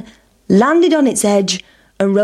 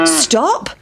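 cow shouting; 5 semitones higher than usual. Acted. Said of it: "shouted the cow".

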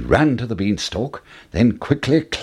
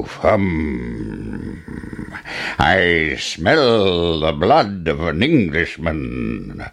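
slow, low giant chanting his threat; booming giant voice; 3 semitones lower, much slower than usual. A narrator's reading. Giant chanting at hidden Jack, slow and menacing.

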